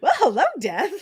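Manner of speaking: high-pitched loud delivery. Repeating back how the other speaker said the line: mimicking their delivery. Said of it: "Like the way you said it".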